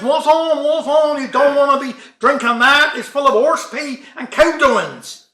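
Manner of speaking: loud Cornish farmer calling out a warning; farmer shouting. Acted. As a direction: shout across the field at the stranger. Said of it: "He shouts".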